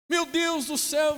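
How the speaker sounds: high, loud, drawn-out mock lament; imitated desperate wail. Fellow patient crying to God over his diagnosis, mock despair. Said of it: "começou a chorar desesperado".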